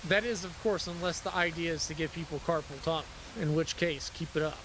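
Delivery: dry sarcastic jab. Acted. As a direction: say it with mock approval. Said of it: "I'm being sarcastic".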